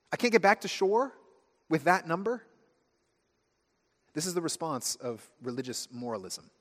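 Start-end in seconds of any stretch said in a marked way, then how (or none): 0.1-2.4 mock dismay. Realizing the distance is hopeless.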